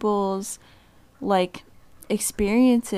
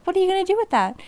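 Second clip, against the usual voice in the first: condescending asker; 10 semitones higher, much faster than usual. Retold or imitated. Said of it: "or they're gonna be like".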